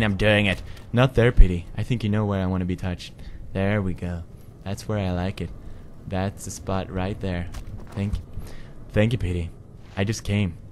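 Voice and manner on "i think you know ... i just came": savoring the petting; lightly voiced satisfied pig. Pig voice being petted.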